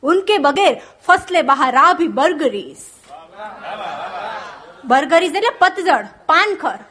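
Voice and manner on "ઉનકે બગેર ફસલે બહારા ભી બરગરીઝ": poetry recital. Shown as a demonstration. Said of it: "Anwar Masood બહુ સરસ પંક્તિ લખી".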